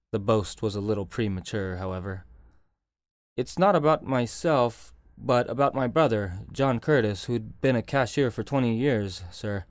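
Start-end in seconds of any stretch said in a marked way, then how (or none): 3.4-9.7 a touch of nerves, hesitant, slightly louder; nervous. Acted. Bank man confessing his brother's trouble to Stedman, mildly nervous. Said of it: "said the man nervously".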